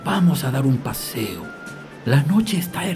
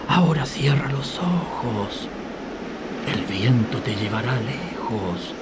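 whisper; 4 dB quieter than usual. Acted. Grandfather soothes her to sleep.

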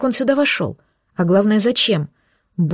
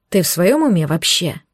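hissing; 3 semitones lower than usual. Acted. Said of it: "шипел он мне над ухом".

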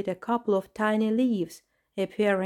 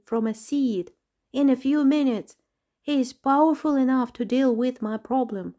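higher, pleading, a touch of a whimper; 4 semitones higher than usual. Acted. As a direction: beg eagerly with a little whimper in the voice. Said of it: "He whimpered".

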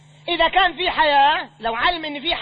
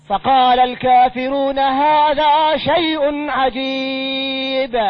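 slow, louder chanted tajwid recitation; slow melodic Quran chanting; 2 semitones lower, 4 dB louder, much slower than usual. Acted. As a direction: intone the verse slowly like a reciter.

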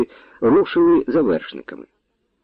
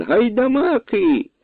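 alarmed cry; 11 semitones higher, slower than usual. A narrator's reading. Nobleman crying alarm.

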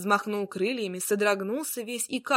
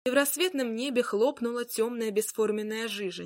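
plain reading voice

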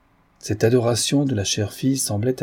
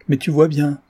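higher, forceful outburst; with some violence; 6 semitones higher, 4 dB louder than usual. A narrator's reading. Father insisting he must confess, somewhat violent. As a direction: burst out impatiently, pitch raised. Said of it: "avec une sorte de violence".

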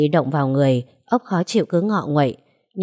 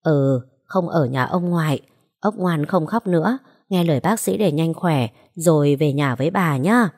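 murmuring tenderly. Acted. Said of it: "Bà ôm ốc thủ thỉ".

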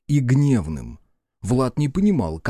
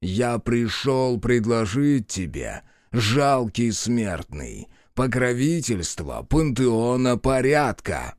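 booming demon lord; much slower than usual. Acted. God speaks down to mortal.

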